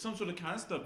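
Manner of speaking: put-on slipping into a South African accent; lightly put-on South African accent. Explaining the film to co-hosts, lapsing into South African accent. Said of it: "I don't know why I did that accent".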